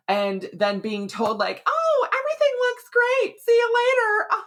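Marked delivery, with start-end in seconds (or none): 1.7-4.4 high, loud, breezy brush-off voice; mock the doctor's cheery dismissal; dismissive doctor.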